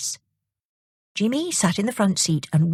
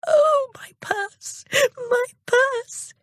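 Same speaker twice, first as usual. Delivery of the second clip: put-on high, slow joyful old lady's cry; glad cry; much slower than usual. Old lady gets her purse back from Jimmy, joyful high cry. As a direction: cry out in relief at the found purse. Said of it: "cried the old lady gladly".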